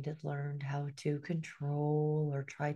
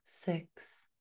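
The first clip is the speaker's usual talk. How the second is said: whisper; 7 dB quieter than usual. Real, not acted. Whispered count in meditation.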